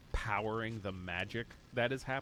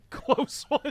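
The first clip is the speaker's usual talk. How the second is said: excited; 12 dB louder than usual. Real, not acted. Narrowly passed the skill roll.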